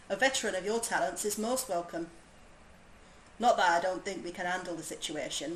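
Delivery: put-on light, imperfect Yorkshire accent for a game soldier. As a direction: read the commander's lines in a so-so Yorkshire lilt. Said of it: "My Yorkshire accent isn't perfect".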